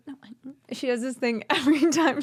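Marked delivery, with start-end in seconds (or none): 0.1-0.7 very soft, hushed imitation; imitated whisper-yell. Imitating a friend backstage, whisper-yelling. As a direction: mimic her hushed protest. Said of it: "She, like, whispers and yells".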